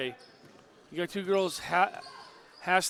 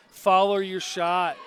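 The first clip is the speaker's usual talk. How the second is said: shouting; 6 dB louder, much slower than usual. Real, not acted. Color man urging player.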